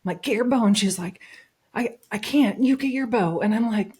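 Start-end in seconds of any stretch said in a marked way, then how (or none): 0.2-0.7 higher, louder retold command; urgent order. Hunter telling partner to arm herself, urgently. 1.7-3.4 imitating a flustered partner, higher and louder; flustered refusal. Partner refusing and handing over the shot, flustered.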